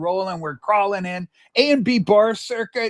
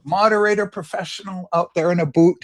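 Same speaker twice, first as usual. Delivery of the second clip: Canadian boot; 3 semitones lower than usual. Retold or imitated. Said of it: "the Canadian pronunciation".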